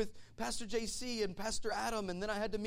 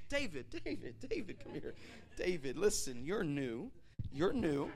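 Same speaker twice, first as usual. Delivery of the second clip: hushing a hothead; 2 semitones lower than usual. Acted. Brothers pulling fired-up David aside, calming him. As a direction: talk him down, word by word.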